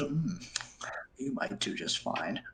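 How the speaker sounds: flirty dwarf lady. Acted. Dwarven lady sizing up Luke, soft flirty tease. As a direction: size him up and tease him.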